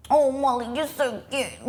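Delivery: mock-sweet condescending friend; patronising cooing. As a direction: talk down to her like a child. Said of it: "like that".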